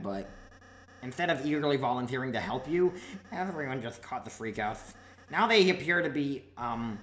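lightly voiced goofy prince; cheerful prince voice. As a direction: play a cheery young villain prince.

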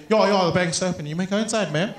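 casual South African coloured twang; easygoing coloured-accent impression. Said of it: "like colored people that like to twang".

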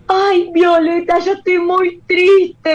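put-on high, slow little-girl voice; sad little girl. Sad girl quoted at party.

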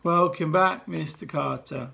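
mumbled, dragging welcome; children grudgingly greeting head teacher; flat reluctant chorus. Acted. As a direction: say it like you don't mean it. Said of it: "So it was more of a".

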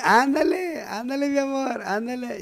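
high, imitated woman's voice; high sing-song mock coaxing; urging woman. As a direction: play the lover egging him on. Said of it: "¿cómo está la Roca?".

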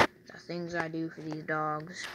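lightly voiced dad, slow and soft; a hint of a dad's weary grumble, said slowly; imitating dad. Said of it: "I'm gonna sound like Dad right now".

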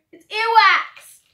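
disgusted laughing cry with mouth full; grossed out, spit it out; eating gross jelly beans. Real, not acted. Tasting gross bean.

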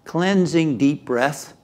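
slow, measured meditation leader with long pauses; unhurried guiding voice; guided meditation. Acted. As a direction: lead them gently into a relaxation. Leads a guided relaxation.

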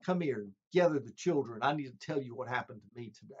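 gently telling family the news, hushed; changed soldier. Retold or imitated. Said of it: "he'd say, Honey".

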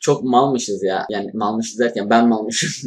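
talking while chewing gum; words around a wad of gum. Real, not acted. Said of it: "Sakız çiğniyorum". (sakız çiğneyerek konuşma)

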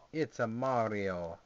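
slow, lightly Wario-ish voice; hint of a cartoon villain voice; a touch of Wario. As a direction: slip into a faint Wario impression. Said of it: "I sounded a little bit like Wario".

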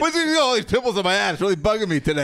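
imitating Aaron. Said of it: "why would he bring that up".

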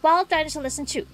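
thrilled outburst easing into keen instruction; eager dinosaur researcher. Acted. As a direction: voice an excitable field researcher guiding a newcomer. Voices the game's dinosaur researcher.

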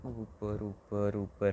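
high, loud up up up; high loud cheering of up; urging up. Real, not acted. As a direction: cheer the ball upward. Urging ball upward.

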